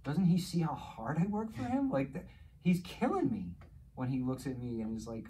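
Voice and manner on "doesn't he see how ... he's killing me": raised, louder frustrated father; exasperated outburst. Retold or imitated. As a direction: blurt it out like a fed-up dad. Frustrated father venting about son.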